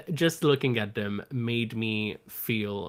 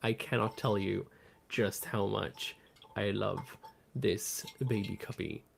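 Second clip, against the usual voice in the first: tender and soft; 4 semitones lower, 5 dB quieter than usual. Real, not acted. Tender declaration of love.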